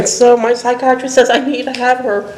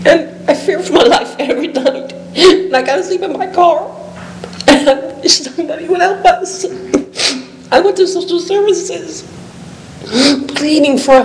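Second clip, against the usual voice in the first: higher, strained voice with nervous laughs; emotional, near tears; 4 semitones higher than usual. Real, not acted. Homeless woman telling the council her fears, near tears. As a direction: let the voice wobble toward tears. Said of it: "I'm trying to get emotional".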